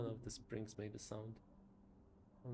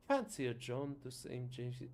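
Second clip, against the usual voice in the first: Scottish attempt drifting into an Irish lilt; a lilt that lands Irish instead of Scottish; accidental Irish accent; 6 dB louder than usual. Inviting a friend out, accent slipping into Irish. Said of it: "that feels Irish".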